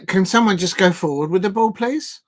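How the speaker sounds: a fed-up fan's pleading cry; exasperated plea. Retold or imitated. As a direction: beg the team to go forward.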